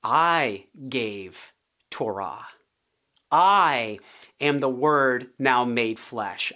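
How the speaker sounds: low, slow solemn declaration; solemn Jesus voice. Acted. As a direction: speak as Jesus, grave and measured.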